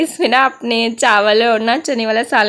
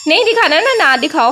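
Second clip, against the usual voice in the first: suddenly much higher, fed up; exasperated; 4 semitones higher than usual. Retold or imitated. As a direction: throw up your hands, don't then. Giving up pleading with sister.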